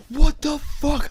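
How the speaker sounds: very high mock scream; retold scream. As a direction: imitate a shrieked outburst without full volume. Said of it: "I started screaming".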